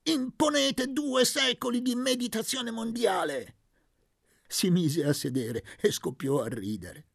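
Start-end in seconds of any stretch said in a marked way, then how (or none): 0.0-3.6 exclamation. A narrator's reading. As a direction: proclaim to the whole world. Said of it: "gridò con le mani in alto". (grido teatrale, lento e alto)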